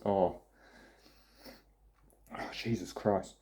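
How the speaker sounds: tingling nose from a fizzy burp; winded groan after burping. Real, not acted. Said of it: "I just burped with lemonade".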